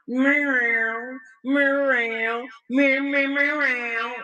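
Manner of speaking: playful cat imitation; cat meows. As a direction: meow like a cat begging.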